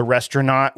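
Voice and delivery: "restaurant" said as "restaura-not"; imitating a daughter's "restaura-not" for "restaurant"; child's mispronunciation. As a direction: end "restaurant" in "not", like a kid's mistake. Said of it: "my daughter calls restaurants restaurants".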